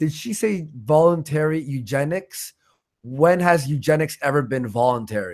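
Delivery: ordinary talk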